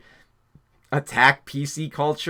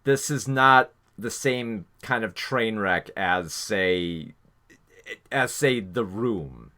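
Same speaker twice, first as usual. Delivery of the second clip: calmer; 3 semitones lower, slower than usual. Real, not acted. Reviewer stressing a point to listeners, speaking more calmly. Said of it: "I gotta speak a little bit more calmly for this part".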